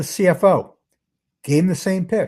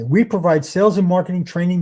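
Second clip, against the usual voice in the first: rushed, glossed over; 3 semitones higher, 3 dB louder than usual. Shown as a demonstration. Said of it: "I tried to say that as fast as I could".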